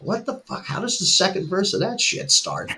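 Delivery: high, baffled self-quote, laughing; mock bafflement at forgetting lyrics; confused what the fuck. To the crowd, baffled at his own lyrics.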